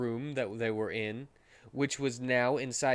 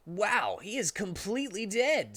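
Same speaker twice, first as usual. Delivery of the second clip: higher, stunned character voice; stunned hero staring at his dead friend; shocked; 7 semitones higher than usual. Acted. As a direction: gape at the body in disbelief. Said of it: "who was so shocked".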